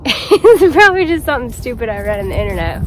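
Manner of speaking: laughing it off. Real, not acted. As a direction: chuckle through it. Laughing at herself.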